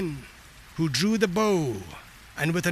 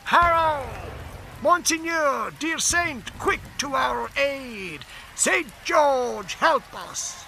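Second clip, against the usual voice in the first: ghostly cry; 8 semitones higher, slower than usual. Acted. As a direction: call out as a phantom bowman. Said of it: "heard the cry".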